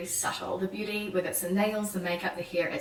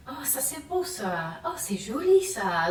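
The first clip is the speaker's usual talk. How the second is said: drawn-out French admiration; 3 semitones higher than usual. Retold or imitated. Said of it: "really draw out".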